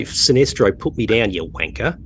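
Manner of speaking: lightly voiced British accent, telling off a villain; a hint of Mark Strong's British villain voice. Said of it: "With your British accent".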